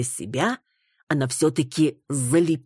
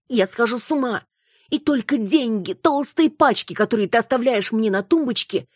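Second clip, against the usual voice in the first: jealous wife outburst; 8 semitones higher than usual. Acted. Wife reproaches her husband in a high, upset voice. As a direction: pour out the hurt and jealousy.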